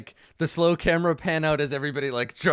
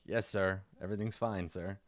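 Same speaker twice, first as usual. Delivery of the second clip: meek henchmen; 6 semitones lower, 9 dB quieter than usual. Acted. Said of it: "his men kinda nod".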